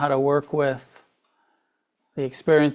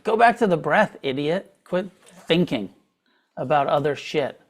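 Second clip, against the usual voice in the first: inner critic. Retold or imitated. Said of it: "that inner tyrant voice".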